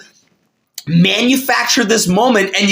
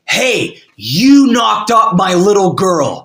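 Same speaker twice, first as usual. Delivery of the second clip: confrontational father; slower than usual. Retold or imitated. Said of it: "gets right in his face".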